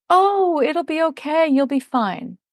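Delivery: high-pitched imitation of hollow comfort; mock reassurance. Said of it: "things is when people say".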